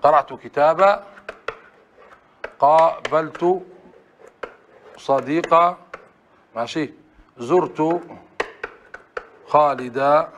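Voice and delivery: slow, deliberate, final a of kitaba held open; pausal alif drilled. Shown as a demonstration. Teacher repeats examples for students, slow and clear. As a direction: say kitaba ending on a long a. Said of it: "ها، مثلًا".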